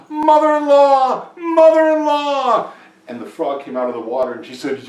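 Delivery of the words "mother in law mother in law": high, drawn-out holler; yelled out. A narrator's reading. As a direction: call loudly across a lake, stretching each word. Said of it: "he yelled out".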